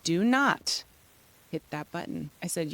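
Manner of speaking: mildly stern mother laying down the rule; kinda stern. Retold or imitated. Mother stops son buying the book, kinda stern. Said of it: "then I got kinda stern".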